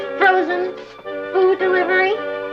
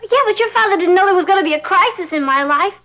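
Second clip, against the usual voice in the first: higher-pitched, urgent pleading; distressed protest; 4 semitones higher than usual. Acted. Girl begging cousin to stay for her crisis, distressed. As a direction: argue back in a mild panic. Arguing with cousin who backs out.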